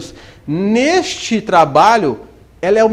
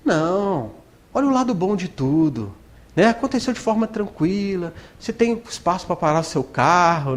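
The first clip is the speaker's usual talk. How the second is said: little angel; 5 dB quieter than usual. Retold or imitated. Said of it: "o anjinho fala assim".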